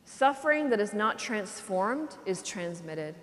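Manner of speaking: Suffering that is not transformed is transmitted, each word laid down slowly; solemn, drawn-out repetition. Shown as a demonstration. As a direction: repeat the saying slowly so it sinks in. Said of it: "the phrase is this".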